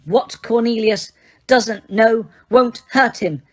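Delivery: slow, gloating threat; sly Umbridge. Acted. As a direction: savor the menace.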